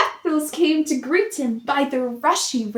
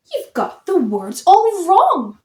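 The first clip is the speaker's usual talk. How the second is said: higher, louder jeering shout; mocking yell; 6 semitones higher, 5 dB louder than usual. A narrator's reading. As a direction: taunt him loudly. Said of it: "but the others yelled".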